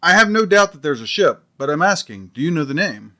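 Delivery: exasperated. Acted. Detective pressing the captain, exasperated. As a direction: lose patience with the captain.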